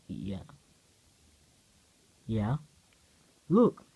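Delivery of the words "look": a sudden high, loud cry of discovery; excited shout. Acted. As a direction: shout it out, thrilled by what you found. Comic son calls Dad excitedly.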